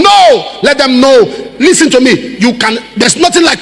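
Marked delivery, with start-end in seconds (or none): 0.0-2.4 preaching shout. Real, not acted. Preacher cries out.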